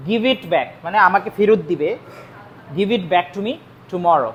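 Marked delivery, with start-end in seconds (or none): 2.8-4.3 slow dictation. Shown as a demonstration. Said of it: "slow dictation to students".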